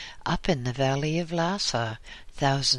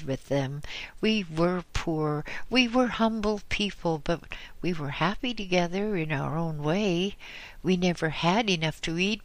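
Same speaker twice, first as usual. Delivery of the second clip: put-on pleading old widow, pitched up; old woman's voice; 5 semitones higher than usual. Old woman begs the Lama, lightly voiced. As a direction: beg the holy Lama for an answer.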